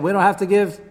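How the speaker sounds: loud, high, hammed-up accusation; princes' accusers demanding his death, loud and high; accusers' charge. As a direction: prosecute him before the cabinet. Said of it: "They said".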